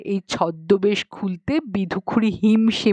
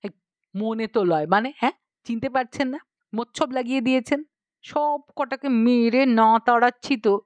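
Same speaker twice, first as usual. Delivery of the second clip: mildly angry uncle. Acted. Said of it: "Tinu কাকা ক্ষেপে গেলেন".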